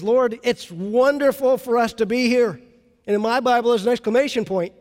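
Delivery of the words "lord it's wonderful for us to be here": excited. Retold or imitated. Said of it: "He's excited".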